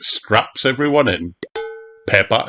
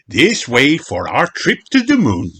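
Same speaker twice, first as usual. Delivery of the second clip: calling out; 5 semitones higher, 3 dB louder than usual. Acted. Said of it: "he calls".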